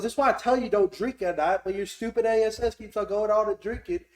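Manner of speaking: loud, high redneck telling-off; redneck scolding. Retold or imitated. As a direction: scold your buddy as a hollering redneck. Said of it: "this redneck pulls up".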